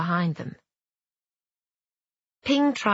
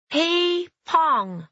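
put-on squeaky baby dragon; 12 semitones higher, 4 dB louder than usual.

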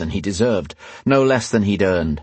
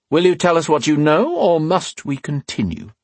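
inquisitor threat; 9 semitones higher than usual. A narrator's reading. Leader threatens more.

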